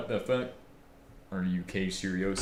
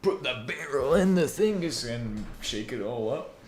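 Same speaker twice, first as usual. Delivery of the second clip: mock instructions; 4 semitones higher, 4 dB louder than usual. Mocking instructions to himself.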